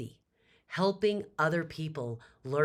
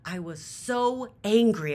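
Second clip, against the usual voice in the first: much higher and louder, slow; angry outburst; 8 semitones higher, 9 dB louder than usual. Retold or imitated. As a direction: let the anger burst out.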